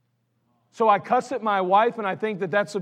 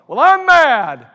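slow, loud, much higher indignant whine; mock angry excuse; 6 semitones higher, 13 dB louder, much slower than usual. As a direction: draw out mad like a sulking excuse. Mocking an angry churchgoer's excuse.

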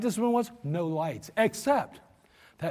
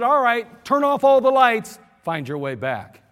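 louder, slow taunting command; mock devil; 3 semitones higher, 6 dB louder, slower than usual. Devil abandoning mankind in dark woods, slow and taunting. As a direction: taunt them like a sly devil. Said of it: "the devil ... then said".

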